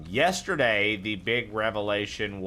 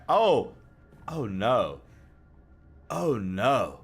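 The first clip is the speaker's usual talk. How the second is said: surprised; much slower than usual. Real, not acted. Sees the picture.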